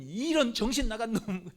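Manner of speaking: 좀 크게 꾸짖는 아버지 흉내; 못마땅해 버럭 나무라듯. Retold or imitated. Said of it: "화를 냈겠어요?". (아들을 꾸짖는 사울 왕, 약간 성난 목소리)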